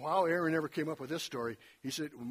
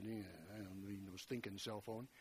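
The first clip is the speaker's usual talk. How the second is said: mock defiant; 8 semitones lower, 15 dB quieter than usual. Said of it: "I'd always said".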